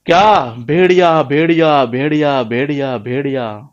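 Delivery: drawn-out mock cry, fading as it repeats; shepherd crying wolf. Shepherd boy fooling the villagers, drawn-out mock cry. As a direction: stretch each wolf cry out slowly. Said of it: "जिसमें वो गडरिया चिल्लाता था ये".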